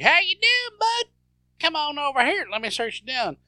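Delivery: loud, high-pitched hail to a white guy; exaggerated shouted act for a white guy; talking to a white guy. Mocking Seagal hailing a white guy, loud and high-pitched. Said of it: "talk to a white guy, you're like".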